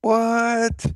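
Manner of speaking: high, sharp mock disbelief; a startled, high-pitched what; stunned what. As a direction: blurt it out in shock. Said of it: "I was like".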